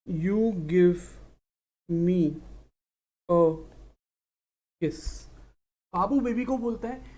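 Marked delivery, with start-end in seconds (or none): 0.1-5.3 mock lover's plea. Babu's line to baby, acted.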